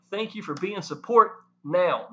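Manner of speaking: slow, leaning on "now"; stress on now. Shown as a demonstration. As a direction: hit the word "now" as the point. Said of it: "Big emphasis on the word now".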